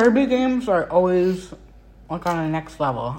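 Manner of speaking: talking through a mouthful of food; chewing between the words; chewing while talking. Real, not acted. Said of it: "Sorry for the munching".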